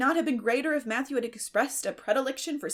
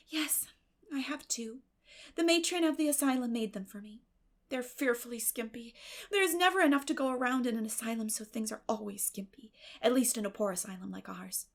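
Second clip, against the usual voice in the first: lightly voiced girl Anne; 2 semitones higher than usual. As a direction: talk on brightly as the girl. Anne's voice in the story.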